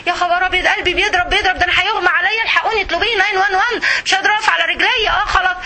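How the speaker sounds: a hammed-up panic, rushing and high; mock panic attack. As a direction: act out a heart-racing fright, fast. (تمثيل نوبة هلع بصوت أعلى وسريع)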